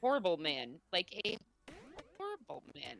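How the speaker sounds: robotic glitchy mic voice; metallic voice. Real, not acted. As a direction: voice breaking up like a robot. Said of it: "why do you sound like a robot".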